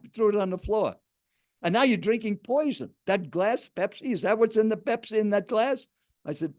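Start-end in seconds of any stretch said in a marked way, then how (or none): 1.6-5.9 high-pitched retold accusation; insistent quoted challenge; aggressive. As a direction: imitate a pushy stranger interrogating someone, without raising volume. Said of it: "kind of an aggressive tone".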